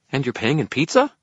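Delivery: high, rising hopeful fairy. A narrator's reading. Fairy asks wizard about pay, hopeful. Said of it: "his tone hopeful".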